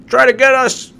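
high, loud mocking taunt; mock taunting Russians. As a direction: jeer like a gloating troll. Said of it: "They're like".

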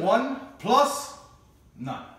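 loud clipped reply; military response. Acted. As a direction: answer the call like a Marine. Marine answer to call.

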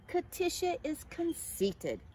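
mild storybook consoling; comforting. A narrator's reading. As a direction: explain gently, drawing the words out. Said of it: "comforted Cornelius".

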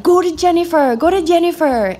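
high, loud repeated cheer; cheering yell. Retold or imitated. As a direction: cheer the rider toward Jennifer. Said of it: "they're cheering me on".

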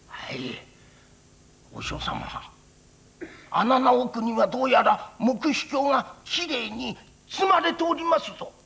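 lightly voiced old countryman; a simple old farmer answering the priest; old villager voice.

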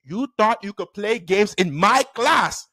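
slow, deliberate scolding; stern teacher. Retold or imitated. Teacher scolding the crying boy.

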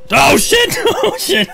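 nervous laugh. Real, not acted. Scared player laughing nervously.

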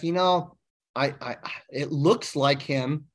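slow, halting, lightly acted uncertainty; tentative, with slow false starts; hesitant witness. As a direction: imitate a witness unsure of the pick. Voices an unsure witness.

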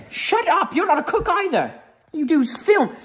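hammed-up scolding of the cameraman; mock angry yell. Chef yelling at the cameraman who only films, hammed-up shout.

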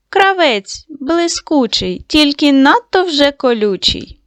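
bream speaking. Acted. Bream speaks in read-aloud riddle.

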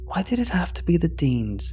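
hushed, breathy dread at the name; a boy's worried whisper about the Deans. A narrator's reading. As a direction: whisper it like a boy who dreads the visit. Boy voicing dread of the Deans.

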